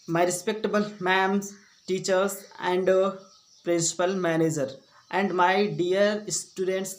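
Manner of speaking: slow, measured school-speech address; formal speech greeting. Shown as a demonstration. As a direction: greet the audience slowly, phrase by phrase.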